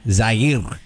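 Jair starting with a z sound; Portuguese Jair. Shown as a demonstration. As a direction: Jair said as zah-eer. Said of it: "it was a little Jair".

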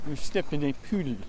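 lightly voiced French-accented inspector; Inspector Clouseau. Quoting the inspector's warning, French accent. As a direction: say "poodle" for puddle, mock French accent. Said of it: "Inspector Clouseau would say".

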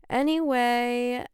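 breathy slow whispered aside. Real, not acted. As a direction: slip into a hushed whisper.

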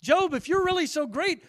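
booming, high-pitched challenge to Job; God daring Job, loud and ringing. Acted. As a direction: thunder the dare at Job.

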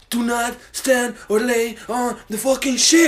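slow, emphatic reading of the sign; mock sign reading. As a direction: spell out the rule slowly. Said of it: "The sign says".

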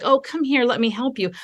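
soft, tender offer of help; comforting parent. Acted. Parent to a kid with skinned knee, gently comforting. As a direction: soothe a hurt child, softening at the end.

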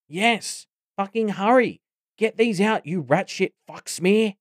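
very high, desperate outburst; frantic cursing. A narrator's reading. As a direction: curse in panic, urging them to hurry. Bumcake frantic, cursing in agony.

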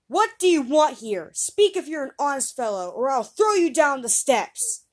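put-on boy shouting a threat at the ghost; cried. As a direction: warn him off hard. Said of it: "The boy cried a second time".

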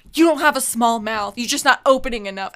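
brisk mock telling-off; dismissive, quickened retort; imitated dismissiveness. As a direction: imitate a curt correction from the dental lady. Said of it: "said it to me like that".

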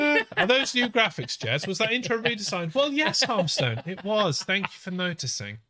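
high, eager self-praise; mock chat. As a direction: pump up the banter playfully. Voices himself and Harmstone.

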